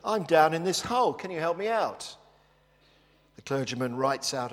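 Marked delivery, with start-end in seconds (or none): 0.0-2.2 higher, louder call for help from a pit; mock shout up. Man in the hole calls to the clergyman, mock shout. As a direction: shout up to the passing reverend, pleading. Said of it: "the guy shouts up".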